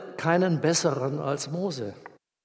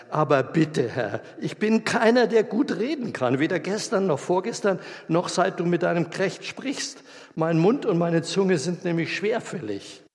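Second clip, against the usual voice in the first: higher, pleading excuse, Herr; pleading Mose; 4 semitones higher than usual. Acted. Mose begs the Lord to send someone else, pleading. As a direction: beg off the task, voice raised and imploring.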